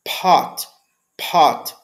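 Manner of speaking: "Pot" with a puff of air on the P; aspirated "Pot". Shown as a demonstration. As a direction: breathe out hard on the P of "Pot". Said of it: "com P aspirado".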